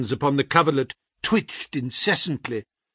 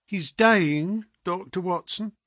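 a lightly raised, anxious landlady voice; worried housekeeper; 6 semitones higher than usual. A narrator's reading. Housekeeper telling the doctor the detective is dying, lightly anxious. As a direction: plead the news like a frightened housekeeper. Mrs Hudson voiced in story.

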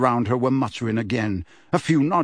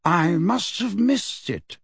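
pleasant; 6 semitones higher, slower than usual. A narrator's reading. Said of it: "said Dumbledore pleasantly".

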